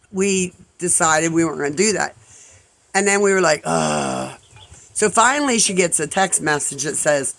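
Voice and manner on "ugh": drawn-out ugh; frustrated groan. Retold or imitated. Friends stuck without a rescue, retold weary groan. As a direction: groan in mock defeat.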